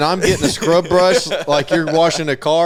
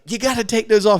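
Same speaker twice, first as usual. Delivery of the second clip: high-pitched mock telling-off; imitated exasperated order; 8 semitones higher than usual. Lady tells resident about backwards pants, imitated exasperation. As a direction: correct him in a raised pitch.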